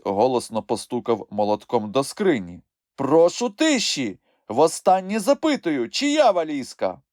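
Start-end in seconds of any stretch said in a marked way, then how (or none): 3.0-7.0 high, loud, firm courtroom voice; raised, insistent judge; judge demanding order. A narrator's reading. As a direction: call for silence from the bench. Judge demands silence after hammering.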